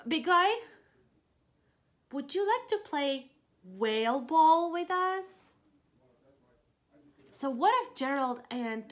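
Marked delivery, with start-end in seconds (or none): 0.1-5.5 higher, louder hopeful question; shy friendly invite. Acted. Reading to kids, Piggy inviting the whale to play. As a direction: ask him nicely to play.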